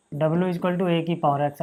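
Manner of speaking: very slow dictated repeat; slow dictation. Shown as a demonstration. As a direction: repeat it slowly so students can write it down. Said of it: "teacher dictating slowly".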